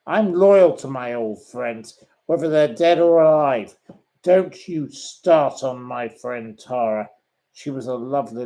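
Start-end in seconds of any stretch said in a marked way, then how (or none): 0.1-7.1 angry. Real, not acted. Defending a dead friend from a bully, angry. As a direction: stand up fiercely for a friend. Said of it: "I'm so angry with you".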